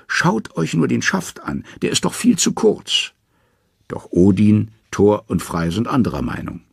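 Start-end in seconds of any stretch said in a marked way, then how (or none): 0.1-3.1 high, anxious protest; nervous Loki. A narrator's reading. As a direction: talk fast to hide the fear. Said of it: "Loki hat es mit der Angst bekommen". (ängstlich, sehr hoch gesprochen)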